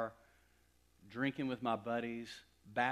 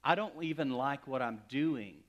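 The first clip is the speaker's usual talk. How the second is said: louder, pressing each I don't; retold desperate plea; 3 semitones higher, 9 dB louder than usual. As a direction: plead it like a man at the end of himself. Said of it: "I was crying out to him".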